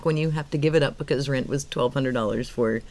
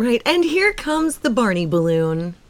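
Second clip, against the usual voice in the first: slow, announcer-style parade call; parade commentator; 4 semitones higher, slower than usual. Pretend. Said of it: "you do look like, one of the news anchors who would cover a parade".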